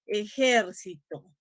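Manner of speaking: "Ejército" slowly split into syllables. Shown as a demonstration. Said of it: "la divido en sílabas". ("Ejército" despacio, dividido en sílabas)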